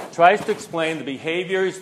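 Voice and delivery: tries leaned on at the start of the phrase; stress on tries. Shown as a demonstration. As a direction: open by pressing tries. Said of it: "I'm gonna emphasize the word tries there".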